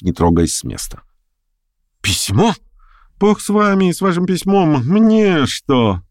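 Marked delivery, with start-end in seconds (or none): 2.0-6.0 much higher, brushing it off lightly; exclaiming. A narrator's reading. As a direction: toss the letter aside with a cry. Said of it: "воскликнул гость". (восклицая, высоко и легко)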